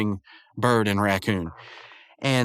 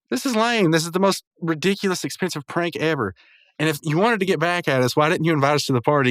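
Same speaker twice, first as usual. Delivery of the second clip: higher-pitched mock complaint; retold indignation; 5 semitones higher than usual. Mordecai and Rigby complain about the prank, imitated indignantly. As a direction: protest like two annoyed cartoon pals.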